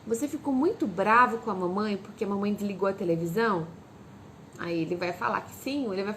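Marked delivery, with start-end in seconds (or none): 0.1-3.7 low, gentle asking, acknowledging the anger; mother gently asking about the tantrum afterwards; gentle question. Shown as a demonstration. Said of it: "Fala assim".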